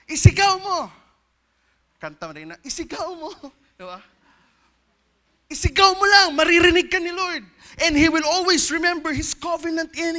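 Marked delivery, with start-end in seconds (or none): 0.1-0.9 a loud cry of isigaw mo; demonstrated shout. Shown as a demonstration. Preacher showing how to cry out, shouting. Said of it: "just shout". 5.5-7.4 higher, louder urging shout; cry out loud. Shown as a demonstration. Preacher urging church to shout to God, loud. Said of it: "just shout".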